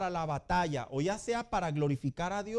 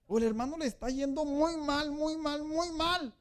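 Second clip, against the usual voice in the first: mournful, going badly; 8 semitones higher, 3 dB louder than usual. Shown as a demonstration. Contrasting two joyful brothers.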